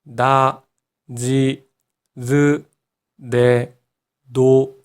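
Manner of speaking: 나, 지, 즈, 네, 노 as voiced da, ji, zu, de, do; voiced d row. Shown as a demonstration. Teacher has learners listen first, voiced da, ji, zu, de, do for 나, 지, 즈, 네, 노. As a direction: separate syllables with voiced d and z onsets. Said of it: "이렇게 티읕은".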